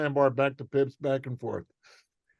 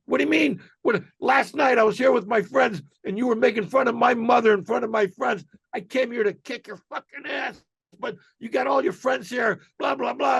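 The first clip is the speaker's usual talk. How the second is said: retold yelling; 7 semitones higher than usual. Heckler repeating his grievance to Otto, high mock yelling. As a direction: hammer the accusation high, like a heckler losing it. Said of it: "and yelling".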